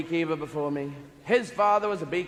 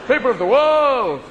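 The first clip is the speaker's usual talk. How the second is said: a dog defending himself to humanity; indignant dog speech; 5 dB louder than usual. Pretend. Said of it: "Dog saying".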